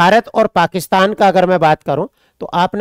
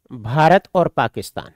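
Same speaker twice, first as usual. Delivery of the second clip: slow dictation; 4 semitones lower than usual. Shown as a demonstration. Teacher repeating for students to note down, slow dictation. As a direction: spell it out slowly so students can write. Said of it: "आपने कहा".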